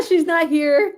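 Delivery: laughing through the words; giggling as she talks. Real, not acted. Streamer laughing at a chat comment, giggling.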